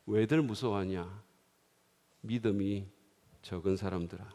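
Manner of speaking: low, soft, gentle reproach; a calm, tender rebuke; Jesus gently rebuking the fearful disciples, low and soft; quiet rebuke. Acted. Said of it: "예수님은 다음에 말씀하셨어요".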